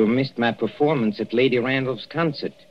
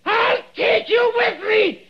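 high, slow, crazed shouting; mad laughing scream; much slower than usual. Acted. Dying man raving, blind.

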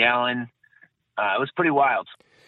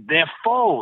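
mild imitated yell, slightly raised pitch; half-raised voice imitating a yelling man; retold yell; 4 semitones higher than usual. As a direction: call it out like a relayed shout, held back. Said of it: "the guy's yelling".

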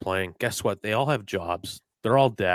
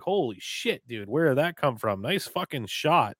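mock amazed; 5 semitones higher than usual. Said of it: "I'll be like".

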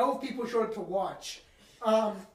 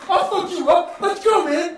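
high, loud tough-guy threat; fight challenge yelled; 8 semitones higher, 9 dB louder, slower than usual. Retold or imitated. Older fan challenging the player, loud yell. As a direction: puff up and call him out. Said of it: "This guy in the stands like".

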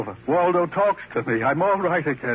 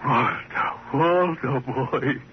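crying out name; 2 semitones lower, much slower than usual. Acted. Reunited with his beloved dummy.

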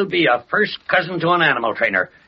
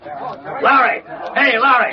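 shouting across the newsroom; calling out; 8 semitones higher, slower than usual. Acted. Editor calls reporter from office.

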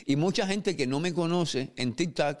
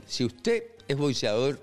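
mock ad read. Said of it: "hacer un anuncio no pagado".

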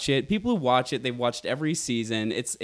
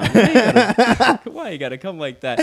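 sassy; 8 semitones higher, 11 dB louder than usual. Retold or imitated. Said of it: "And I was like".

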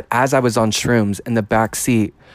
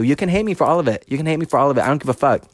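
defiant rant; 3 semitones higher, much faster than usual. Real, not acted. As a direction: throw it at the haters, defiant.

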